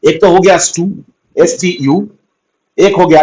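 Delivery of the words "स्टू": "स्टू" set apart as one syllable; isolated syllable. Shown as a demonstration. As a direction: say "स्टू" alone, as the first beat of the word. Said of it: "यहाँ पे दो syllable निकल के आता है".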